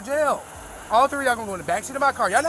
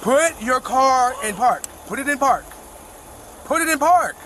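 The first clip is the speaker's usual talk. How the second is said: commanding shout; 2 semitones higher, slower than usual. Real, not acted. Officer orders driver to park.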